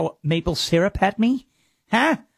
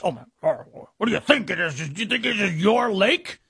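mock Canadian. Mocking upset Canadians.

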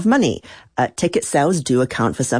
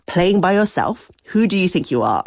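higher-pitched mild scolding of a player; retold telling-off; 6 semitones higher than usual. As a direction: quote a manager's dressing-down, lightly indignant. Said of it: "the manager absolutely destroyed him".

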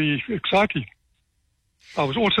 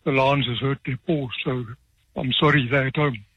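put-on Eastern Cape accent. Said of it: "heaviest Eastern Cape accent".

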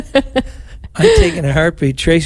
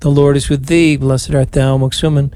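even, devout prayer cadence, last line whispered; prayer recitation. Acted. Priest leading radio rosary, devout prayer recitation. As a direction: pray it aloud for the listeners. Leads Hail Mary.

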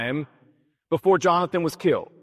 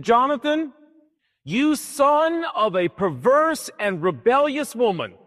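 a preacher acting out an enraged father, pitched up; mock furious king; 3 semitones higher than usual. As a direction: play Saul snapping at his son, half-acted. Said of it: "And Saul went ballistic".

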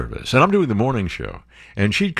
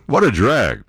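usual speaking voice

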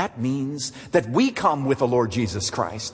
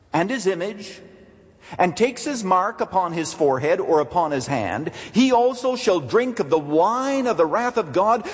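raised, higher-pitched solemn declaration; loud angelic proclamation; 4 semitones higher than usual. Acted. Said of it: "crying with a loud voice".

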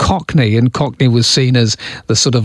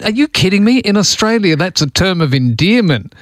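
retold amused protest; 6 semitones higher than usual. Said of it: "I said".

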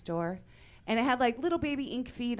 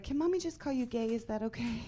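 sweet mommy voice; 4 semitones higher than usual. Retold or imitated. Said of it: "And I was like".

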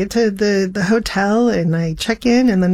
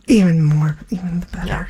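tearful whisper; 3 semitones lower than usual. Retold or imitated. Tearful delight at the news.

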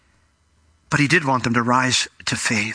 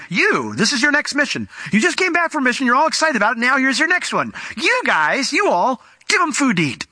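fervent preaching; 10 semitones higher than usual. Acted. Preacher urging his listeners.

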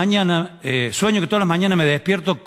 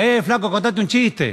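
mock street call, pitched up; passer-by calling out; 4 semitones higher than usual. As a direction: lightly imitate someone hailing you in the street. Passer-by calls out to comedian.

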